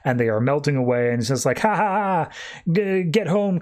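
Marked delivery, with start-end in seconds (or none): 1.6-3.6 imitated mocking laugh, pitched higher; playground-style mock teasing; mocking taunt. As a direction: jeer lightly with a spelled-out ha-ha. Girls mock young Diana.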